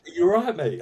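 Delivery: loud rising "all" that picks a fight; aggressive challenge. Shown as a demonstration. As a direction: say "Are you all right, mate?" as a pub threat, stress on all. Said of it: "If you said".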